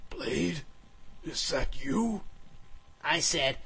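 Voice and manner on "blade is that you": disbelief. A narrator's reading. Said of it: "He could not believe his ears".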